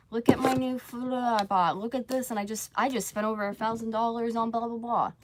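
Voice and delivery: mock bragging. Streamer mimicking YouTubers showing off purchases, mock bragging.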